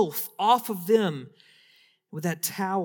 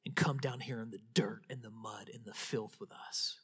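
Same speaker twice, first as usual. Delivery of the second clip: hushed preaching; 5 semitones lower, 8 dB quieter than usual. Acted. Hushed turn after "holy.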